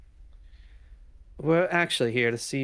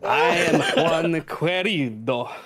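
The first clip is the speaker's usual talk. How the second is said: put-on Spanish accent; 2 semitones higher, 3 dB louder, slower than usual. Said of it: "Equally terrible, I'm sure".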